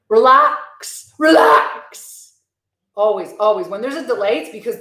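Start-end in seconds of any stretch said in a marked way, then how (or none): 0.1-2.4 high, drawn-out call to relax; mock exasperation. Telling the YouTube spies off, high mock exasperation. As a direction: call it out high, stretching the word, building.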